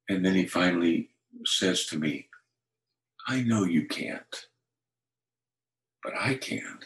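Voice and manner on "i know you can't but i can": hushed divine reply. Retold or imitated. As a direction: let the last words fall to a whisper, like a secret promise. God's gentle answer retold.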